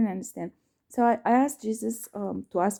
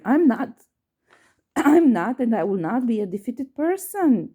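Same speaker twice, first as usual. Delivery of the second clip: retold indignant protest, building to louder refusal; angry, upset; 3 dB louder than usual. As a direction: replay the outrage, punching the final refusals. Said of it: "I was so angry. I was so upset".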